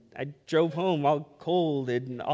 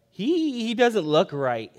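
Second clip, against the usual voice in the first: drawn-out, doubtful 'he', starting high; hesitant concern; 5 semitones higher, 4 dB louder, slower than usual. Retold or imitated. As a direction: imitate a wife uneasily sizing up a child. Wife uneasily eyeing sick son.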